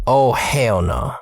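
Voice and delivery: slow, shouted hell no; drawn-out outraged shout. Retold or imitated. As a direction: bellow it in disbelief. Reacting to theft news.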